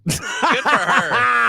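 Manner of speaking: slow, through laughter; laughing. Real, not acted. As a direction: laugh as you say it. Laughing at the mom's trick.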